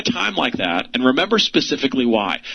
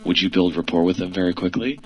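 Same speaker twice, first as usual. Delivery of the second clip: much lower and softer, dragging along; lower, softer drag to show sluggish talk; talking slow; 8 semitones lower, 3 dB quieter than usual. Shown as a demonstration. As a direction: demo of someone talking too slowly. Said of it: "and they were talking like this".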